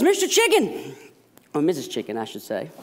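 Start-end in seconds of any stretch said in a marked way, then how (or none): 0.0-0.9 much higher squeaky mouse voice; a tiny mouse begging for help; pleading mouse. Acted. Mouse begging the chicken for help, high squeaky plea. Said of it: "And he says".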